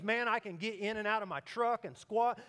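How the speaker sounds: loud, high, enthusiastic retelling; eager mock testimonial; excited stranger. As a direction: imitate a big guy raving to a stranger. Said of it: "this guy's excited".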